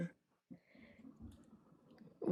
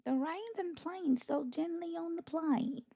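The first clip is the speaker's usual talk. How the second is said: posh British quote; 8 semitones higher, 11 dB quieter than usual. Retold or imitated. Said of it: "Is that My Fair Lady?".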